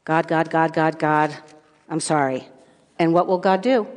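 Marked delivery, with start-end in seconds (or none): 0.0-2.5 repeated, understated plea to God; mild mock begging. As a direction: plead lightly, trailing into an apology. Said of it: "you can beg God".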